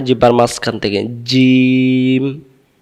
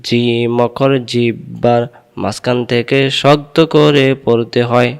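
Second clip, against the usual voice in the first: slow recitation. Shown as a demonstration. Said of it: "আরেকবার".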